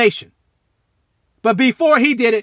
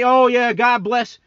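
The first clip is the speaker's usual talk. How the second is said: mocking Biden; 3 semitones higher, slower than usual. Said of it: "You say".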